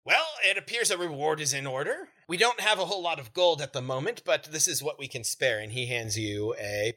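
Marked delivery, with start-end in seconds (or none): 0.0-5.6 lightly voiced, higher-pitched gnome; mildly high, courteous little gnome; gracious gnome shopkeeper. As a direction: offer the reward with a hint of gnome. Plays the gnome owner.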